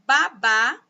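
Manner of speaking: each syllable read out clearly; teacher reading aloud; careful reading. Shown as a demonstration. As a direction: read slowly for the children. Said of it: "observe estas palavras".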